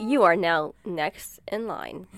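slow automated queue announcement; automated phone voice. Pretend. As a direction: read it like a phone queue recording. Imitating automated phone message.

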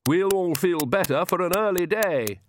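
high countess voice, jollying them along; high, encouraging mother; rallying. A narrator's reading. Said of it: "trying to rally them".

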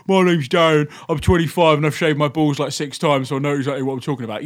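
lightly put-on chavvy English accent; hint of a chav football hooligan, English accent; mock him in a lightly chavvy English accent; Darren. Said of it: "I don't know why I made him sound so chavvy".

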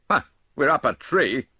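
loud blunt Dodge; blunt interjection. A narrator's reading. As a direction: blurt it out. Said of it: "interposed Mister Dodge".

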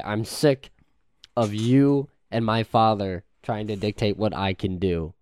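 loud, frustrated outburst; fed up. Acted. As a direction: push each phrase out in annoyance. Acted outburst at the butler.

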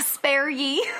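shouted peasant voice; feudal serf impression. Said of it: "That sounded more like a feudal serf impression".

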